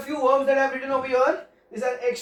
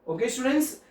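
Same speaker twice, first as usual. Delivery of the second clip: usual speaking voice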